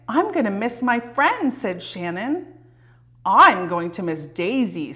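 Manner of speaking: put-on lively read-aloud for children; storybook reading. A narrator's reading. Reading a picture book aloud.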